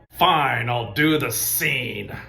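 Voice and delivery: grudging Harrison Ford mumble, slow; a hint of a reluctant Ford. Imitating Ford for the viewers, slow and grudging. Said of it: "my Harrison Ford imitation".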